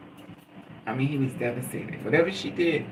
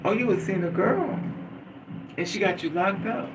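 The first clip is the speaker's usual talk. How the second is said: higher, mocking girlfriend voice; 5 semitones higher than usual. Retelling how his girlfriend mocked him, higher and mocking. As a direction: ape her accusing tone. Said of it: "the bitch got me like".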